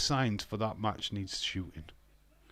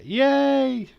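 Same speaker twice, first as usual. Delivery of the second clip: high, loud whoop of joy; excited cheer; 11 dB louder than usual. Real, not acted. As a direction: cheer like he just won. Cheers on guessing Warrior.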